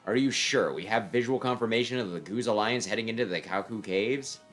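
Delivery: cool voice of an enemy commander; stern commander voice. Acted. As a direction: question the report coldly.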